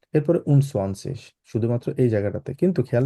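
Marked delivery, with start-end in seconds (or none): 0.1-1.3 very slow, drawn-out teacher demo. Shown as a demonstration. Teacher slowly modelling the German word ending. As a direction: stretch every syllable out. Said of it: "আট আসলো".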